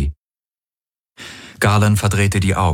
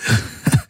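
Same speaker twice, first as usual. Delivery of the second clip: hoarse laugh. Acted. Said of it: "er lachte heiser".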